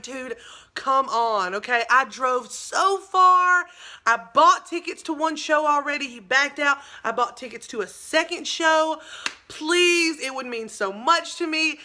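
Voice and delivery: begging, laying it on thick; overdone plea to the tour manager to get backstage. Retold or imitated. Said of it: "Laying it on so freaking thick".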